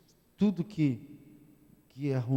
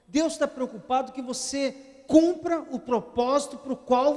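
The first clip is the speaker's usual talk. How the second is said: fervent preaching; 9 semitones higher than usual. Acted. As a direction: preach it with rising fervor. Preaching rises to full force. (pregação fervorosa, voz mais aguda e forte)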